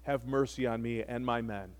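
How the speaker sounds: soft, humbled begging that keeps fading; humble plea. Retold or imitated. Kneeling captain begging Elijah for mercy, soft and humble. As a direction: plead quietly for mercy from your knees. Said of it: "He falls to his knees and says".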